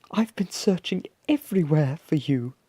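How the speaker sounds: high, fond mother's voice; monster mother. A narrator's reading. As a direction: pour it out to the found child. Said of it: "she said".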